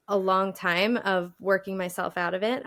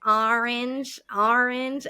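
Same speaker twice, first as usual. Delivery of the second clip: imitating baffled listeners, higher pitch; puzzled repeating; 4 semitones higher, 3 dB louder, much slower than usual. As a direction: echo the word back in mock bafflement. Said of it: "and they're like".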